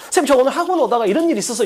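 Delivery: 학원 rushed through fast; quick student line. Shown as a demonstration. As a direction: rattle it off quickly like a kid. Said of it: "이렇게 하면 돼". (빠르게 말하는 학생)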